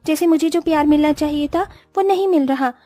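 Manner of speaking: lightly voiced bride realising her mistake; remorseful young bride. Vedika voiced, regretful.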